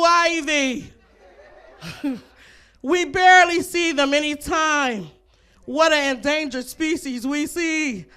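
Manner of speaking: loud, slow nature-show awe; Steve Irwin impression. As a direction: point out the rare animal like a wildlife host. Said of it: "That was my Steve Irwin impression".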